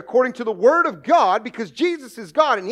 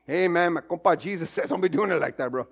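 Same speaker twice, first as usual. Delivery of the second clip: Mexican compadre; 6 semitones lower, 5 dB quieter than usual. Retold or imitated. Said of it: "he's somebody's compadre".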